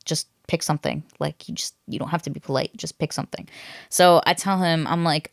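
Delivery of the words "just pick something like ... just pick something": soft, fading to a breathy hush; hushed friend advice. Retold or imitated. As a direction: urge her quietly, almost whispered. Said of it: "they were like".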